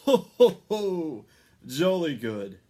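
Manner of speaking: big loud high chuckle; jolly ho ho ho. A narrator's reading. Santa chuckling at the good children, loud and jolly. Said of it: "chuckled Santa".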